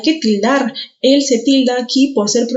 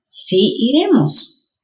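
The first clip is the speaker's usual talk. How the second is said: slow, sí said stronger; stress on sí; 3 semitones higher, much slower than usual. Shown as a demonstration. Teacher showing stressed sí, slowly. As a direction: drag out and lean on sí. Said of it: "se pronuncian más fuerte".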